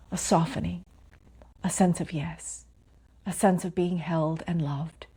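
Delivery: calm meditation guide with long pauses; unhurried phrases, each left to settle in silence; guided meditation. Real, not acted. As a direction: lead them gently inward, pausing between phrases.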